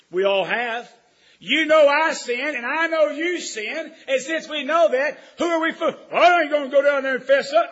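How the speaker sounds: loud, slow, high preacher's cry; booming sermon delivery; full-force preaching. Acted. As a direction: preach it out to the pews.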